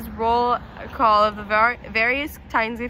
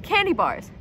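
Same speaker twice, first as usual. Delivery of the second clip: laughing through the words, voice raised; words spilling out in a laugh; 5 semitones higher than usual. Acted. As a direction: cracks up as he says it. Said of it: "the laughter beginning again".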